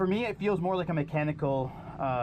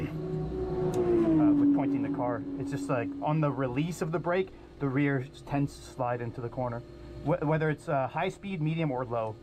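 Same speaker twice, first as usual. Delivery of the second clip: over the radio. Real, not acted. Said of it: "you can listen in on the radio".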